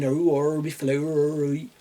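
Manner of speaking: a light West Country yokel accent, mocking. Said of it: "they might have an accent like this".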